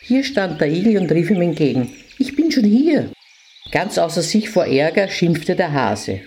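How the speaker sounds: put-on lively storytelling for children; fairy tale narration. A narrator's reading. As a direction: read it like a bedtime story to little kids.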